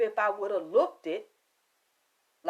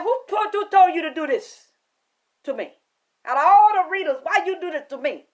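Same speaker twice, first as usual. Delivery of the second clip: angry confrontation; 6 semitones higher, 7 dB louder than usual. Retold or imitated. Confronting client, retold.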